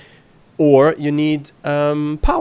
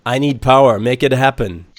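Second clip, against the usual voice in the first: blunt demand; 3 dB louder than usual. Retold or imitated. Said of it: "He was very straightforward".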